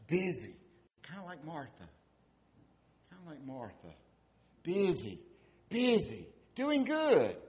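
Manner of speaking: hammed-up frantic busyness; mock busy. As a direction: pile it on, getting shriller. Mocking Martha's busyness.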